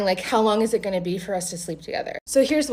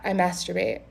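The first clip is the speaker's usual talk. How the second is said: matter-of-fact. Shown as a demonstration. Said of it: "He says it just like that".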